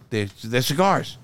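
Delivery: ordinary talk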